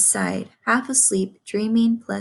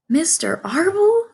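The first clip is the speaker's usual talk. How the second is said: sobbed; 9 semitones higher, 5 dB louder than usual. A narrator's reading. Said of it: "sobbed Wilbur".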